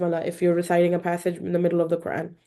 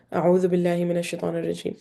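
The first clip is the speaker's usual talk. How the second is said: rapid recitation; Quran recitation; much faster than usual. Shown as a demonstration. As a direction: recite it quickly. Recites the isti'adha.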